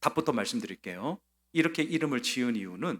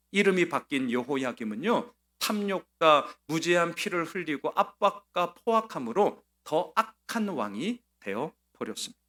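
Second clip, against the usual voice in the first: ordinary talk, nothing marked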